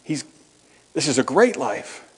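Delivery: lightly re-preach the invitation with fervour; mildly impassioned outreach preaching; preaching to visitors. Retold or imitated. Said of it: "But you do have to say".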